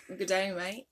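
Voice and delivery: lightly attempted Australian accent. Shown as a demonstration. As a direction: try a casual Aussie accent. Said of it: "Australian English. ... Just like".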